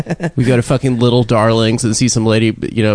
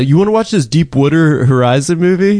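put-on Long Island accent; 4 semitones higher than usual. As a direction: mimic a Long Island friend's "wudder" vowel. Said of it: "the Philly way".

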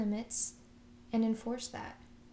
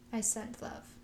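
soft affirmation. Shown as a demonstration. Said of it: "let's say our affirmations".

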